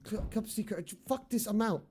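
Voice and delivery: shaky voice from adrenaline; trembling. Real, not acted. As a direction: speak while still shaking. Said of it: "I'm actually trembling".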